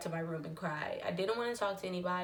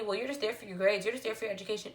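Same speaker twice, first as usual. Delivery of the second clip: "you're just there for your grades" in a light mock of the preachy advisers; dismissive quoted advice; faster than usual. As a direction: retell the condescending line, only lightly voiced. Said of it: "I had so many people telling me".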